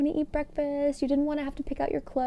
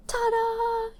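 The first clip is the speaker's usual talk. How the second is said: ta-da; 12 semitones higher than usual. A narrator's reading. Groundhog emerging.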